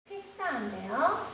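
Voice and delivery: 퀵 사운드예요 with the jaw dropped wide on 사운드; 사운드예요 rising, wide-open a; open a sound. Shown as a demonstration. Teacher modelling 퀵 사운드예요 for the class. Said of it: "아 하고 최대한 입을 넓게 벌려".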